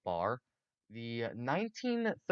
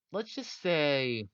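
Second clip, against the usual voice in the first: slow dramatic aside; 3 semitones higher, much slower than usual. Real, not acted. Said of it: "slow dramatic pause".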